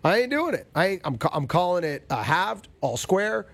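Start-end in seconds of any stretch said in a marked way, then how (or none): 0.0-0.7 stubborn, higher-pitched grumbling. Real, not acted. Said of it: "the grumpy old man".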